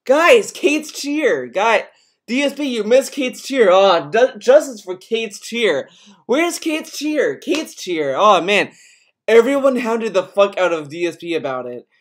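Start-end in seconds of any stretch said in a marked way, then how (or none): 0.0-8.7 high, whiny mock chant, some words slow; hammed-up pestering fans, higher; mocking chat again. Streamer imitating chat nagging DSP, high mock whine. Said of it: "It's like".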